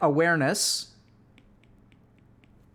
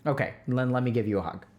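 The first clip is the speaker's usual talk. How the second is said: soft checking in; 4 semitones lower than usual. Shown as a demonstration. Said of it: "And then you can ask them".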